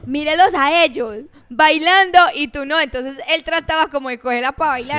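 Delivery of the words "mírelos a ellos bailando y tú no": más fuerte, reprochando al novio; échale en cara al novio; reclamo en voz alta. Retold or imitated. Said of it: "le decía al novio como que". (reclamo más fuerte)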